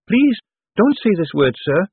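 high, urgent maid's plea. Acted. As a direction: warn him urgently. Peggy warning.

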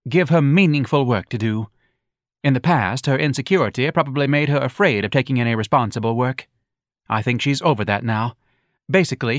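lightly voiced lecturing wife; Mrs Levy's voice. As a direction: preach pop psychology like a bossy wife.

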